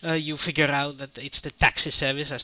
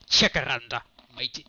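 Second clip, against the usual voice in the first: Australian pirate; 2 semitones lower, 3 dB louder than usual. Pretend. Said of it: "Australian pirate".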